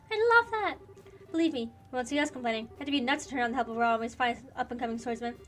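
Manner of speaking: lightly voiced game party banter; dubbing an anime RPG cast; character voices. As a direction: read the heroes' lines with gusto.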